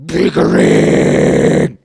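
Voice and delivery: slow eerie whisper; creepy whisper. Acted. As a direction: breathe it out sinister. Creepy echo of biggering.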